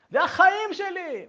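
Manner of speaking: high, loud, drawn-out protest of love; mock wailing father. Father protests his love to psychologist, mock wailing. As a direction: imitate a father about to bawl. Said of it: "והתחיל לגעת".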